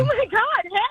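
high, starstruck exclamation; real fan delight; thrilled disbelief. Real, not acted. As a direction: let the excitement lift your voice way up. Fan thrilled by surprise radio call.

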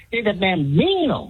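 Cuban neighbor impression. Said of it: "they talk like this and they go a little higher".

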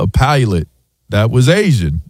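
ordinary delivery

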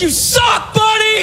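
put-on drunk fan yell. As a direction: heckle from the stands. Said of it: "You're like".

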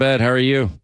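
usual speaking voice

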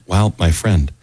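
low, calm, direct address; really calm impersonation. Shown as a demonstration. Guest demonstrating his host impression, really calm and low. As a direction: drop the pitch and talk straight to them. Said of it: "I just try to get really calm and talk to people directly".

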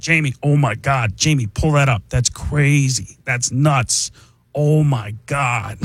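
slow amazed podcaster; drawn-out astonishment; Joe Rogan. Acted. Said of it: "it becomes Joe Rogan".

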